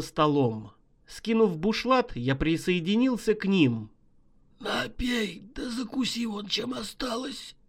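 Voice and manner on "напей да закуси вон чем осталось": softer, higher gruff offer; hushed offer. Acted.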